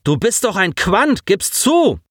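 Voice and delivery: mild taunting bluster; pushing for a confession. A narrator's reading. Alex taunts Simon, mild bluster. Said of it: "polterte der kräftige Junge".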